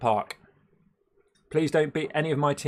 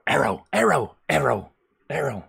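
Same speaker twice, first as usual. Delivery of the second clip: a louder chanting put-on voice repeating aero; mock Zwifty chant; Zwifty impression; 4 dB louder than usual. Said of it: "That's my Zwifty impression".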